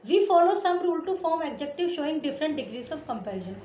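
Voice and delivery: slow, deliberate dictation of the rule; textbook reading. Acted. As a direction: read it out slowly for the class to copy. Reads textbook rule aloud. (धीमे-धीमे किताब से पढ़ना)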